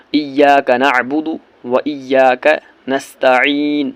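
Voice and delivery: slow, drawn-out melodic recitation; measured tajweed recitation; slow Quran recitation. Shown as a demonstration. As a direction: chant each word slowly and reverently. Recites verse slowly.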